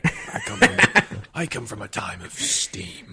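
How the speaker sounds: slow laughing grand voice; hammed-up mythic storyteller; mock dramatic. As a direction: proclaim your steam origins, half laughing. Mock steampunk origin speech.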